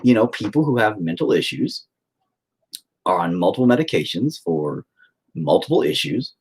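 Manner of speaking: patient warning therapist, insistent; lecturing. Retold or imitated. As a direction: spell out the danger firmly. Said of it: "I'm like".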